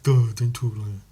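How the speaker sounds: mocking, dopey condescension; dismissive rebuke. Mimicking someone who rebukes slang, mock dismissiveness. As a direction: imitate a snooty brush-off, thrown away. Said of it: "the dismissiveness of it".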